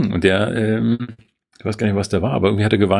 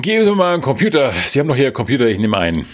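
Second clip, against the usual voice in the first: clueless customer; 4 semitones higher, much faster than usual. Retold or imitated. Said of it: "irgendwie sagen".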